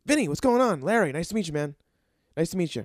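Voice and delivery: high, loud impression of Larry; imitating Larry's upbeat hello; lightly hammed-up Larry; Larry's greeting. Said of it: "He's like".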